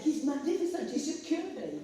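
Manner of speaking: high, loud joyful cry; excited exclaim. Retold or imitated. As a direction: burst out happily to the whole room. Joyful exclaim to waiting room.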